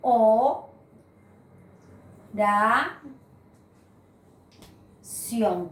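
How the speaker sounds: O, ra, ción split with long pauses between syllables. Shown as a demonstration. Teacher separating oración for students, pausing between syllables. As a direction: break oración into syllables, pausing after each. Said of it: "voy a separar la palabra oración".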